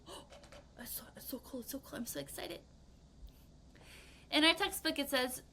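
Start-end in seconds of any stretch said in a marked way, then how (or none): 0.1-2.6 excited. Retold or imitated. Acting out an avid person.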